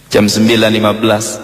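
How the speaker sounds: plain reading voice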